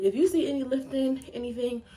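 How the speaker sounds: breathless and rushed; words between quick breaths. Real, not acted. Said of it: "I'm out of breath".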